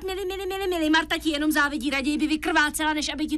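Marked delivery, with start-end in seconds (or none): 0.0-0.9 exasperated repeating. Acted. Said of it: "mám ti to říkat tisíckrát".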